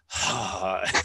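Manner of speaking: re-enacted long breathy sigh; weary sigh. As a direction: let out a mock resigned sigh. Acts out past weary reaction.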